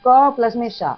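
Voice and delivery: slow, deliberate spelling out of each part; slow letter breakdown. Shown as a demonstration. Teacher slowly breaks the letter apart for students. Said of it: "आप कहेंगे".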